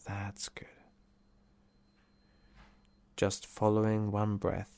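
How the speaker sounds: calm meditation guide, unhurried phrase by phrase; guided relaxation. Acted.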